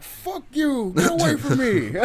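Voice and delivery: high-pitched retold fury; loud, high go-away shout, acted; angry mock yell. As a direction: imitate a hurt man lashing out. Angry injured man's quote.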